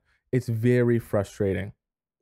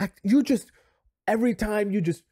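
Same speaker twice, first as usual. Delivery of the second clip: high-pitched, hammed-up tearful girlfriend; imitating a girlfriend falling apart in a whiny high voice; mock breaking down; 9 semitones higher than usual. Girlfriend breaking down at her boyfriend in a mock teary high voice. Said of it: "And you're, like, breaking down".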